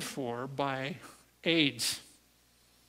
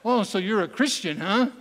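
smug; 6 semitones higher, 6 dB louder than usual. Retold or imitated. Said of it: "You know, he's all smug".

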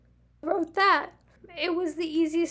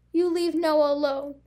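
stern. Acted. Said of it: "He was stern, but not yelling".

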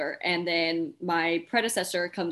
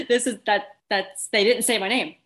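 disbelief; 3 semitones higher, 5 dB louder than usual. Retold or imitated. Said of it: "shock of not being called".

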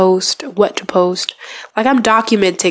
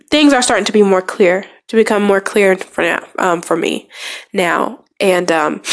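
blocked nose, sniffly speech; stuffy nose. Real, not acted. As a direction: talk through a blocked nose. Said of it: "sound stuffy or sniffing or stuttering".

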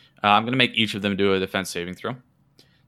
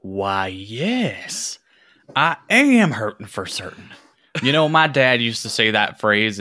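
put-on old man voice; 4 dB louder than usual. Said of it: "this old man".

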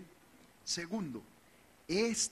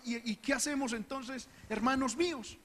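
uncertain Aarón; 8 semitones higher than usual. Retold or imitated. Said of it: "y Aarón".

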